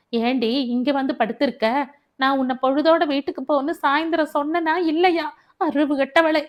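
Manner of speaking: rising into a raging rebuke; angry scolding. Acted. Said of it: "கோபத்தோடு". (கணவன் மனைவியை கோபமாக திட்டும் உரத்த குரல்)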